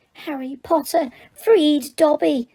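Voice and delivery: high, slow elf voice with wonder; shrill Dobby. Acted. Freed elf gazes up at Harry, slow shrill awe. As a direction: squeak it out in awe, stretching "Dobby". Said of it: "said the elf shrilly".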